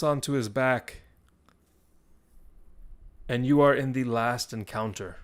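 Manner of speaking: dramatic storytelling with weighty pauses; game master narration. Acted. Game master describes the cursed satchel to the player, dramatic narration. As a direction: tell it phrase by phrase, building the peril.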